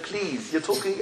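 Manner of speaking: hushed, pleading "please"; soft pleading. Retold or imitated. Yehuda begs Yosef for his brother, soft pleading. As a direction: beg under your breath. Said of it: "he began pleading to Yosef".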